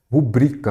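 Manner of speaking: "Rubrica" stressed as ru-BRI-ca; penultimate stress. Shown as a demonstration. Teacher repeating the correct form to memorise, "Rubrica" stressed on BRI. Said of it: "rubrica é uma palavra paroxítona".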